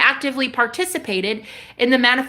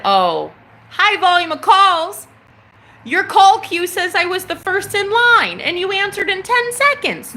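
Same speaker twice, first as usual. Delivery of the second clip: sarcastic disbelief; 9 semitones higher, 3 dB louder than usual. Retold or imitated. Mocking the agent's excuse.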